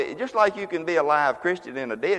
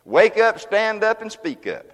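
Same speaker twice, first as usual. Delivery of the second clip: high, loud snatch of the song; song quoted loudly; 6 semitones higher, 4 dB louder than usual. Retold or imitated. Preacher echoing Leslie's song to the church. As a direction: call it like the song's refrain. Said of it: "Leslie sang a song".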